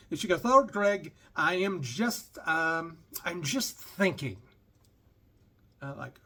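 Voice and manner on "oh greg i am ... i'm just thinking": badly imitated accent, slow and lilting; Doctor Ruth. Narrator quoting his passenger's answer, mock accent. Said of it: "I'm doing a horrible accent here".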